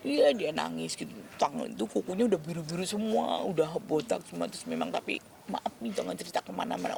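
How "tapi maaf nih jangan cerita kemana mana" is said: soft, secretive request; hushed plea. Retold or imitated. A friend asks her to keep the cancer secret, hushed. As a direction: whisper it so no one hears.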